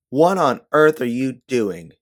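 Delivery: loud, slow, furious demand; shocked, angry shout at a friend; angry outburst. Acted. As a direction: snap at her so the whole room goes silent. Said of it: "the anger in your voice".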